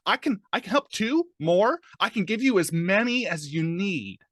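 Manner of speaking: loud, high, stammering desperate plea; struggling against restraints. Acted. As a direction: bargain frantically while strapped down, voice rising. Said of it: "he kind of struggles against the restraints".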